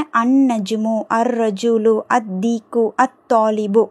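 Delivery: no L, doubled consonant in "அன் நஜ்மு", "அத் தீக்கு"; silent lam. Shown as a demonstration. Teacher lists words where lam is unsounded, L silent. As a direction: join "அர் ரஜூலு" on a held R, without L. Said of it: "அந்த லாம் உச்சரிக்கப்படவே இல்லை".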